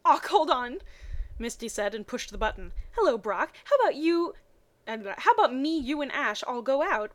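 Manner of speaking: rising to an indignant squeal; excited Misty. Acted. Misty scolding Ash for not phoning, excited.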